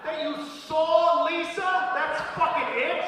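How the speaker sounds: high, loud incredulous ranting; outraged rant. Acted. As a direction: scream disbelief at a bore.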